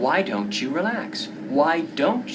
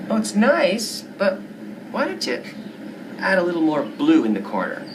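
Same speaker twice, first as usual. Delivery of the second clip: meddling friend. Acted. Friend meddles with the painting's colors. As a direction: butt in on her painting.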